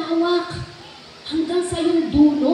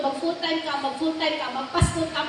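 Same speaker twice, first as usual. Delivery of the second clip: voice of the Lord; 5 dB quieter than usual. Retold or imitated. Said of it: "sinasabi sa kanya ni Lord".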